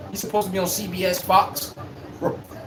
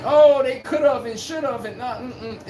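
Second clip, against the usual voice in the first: mock pandering; 3 semitones higher, slower than usual. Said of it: "We don't do the pandering".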